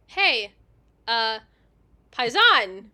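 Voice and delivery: loud greeting, Paisan said "pie-ZAHN" with gusto. Shown as a demonstration. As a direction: call out Paisan like an Italian spotting a countryman. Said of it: "a little bit more excited".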